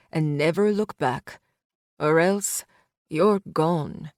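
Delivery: put-on calm mob threat to a young woman; menacing man. Tomas threatens Ruby.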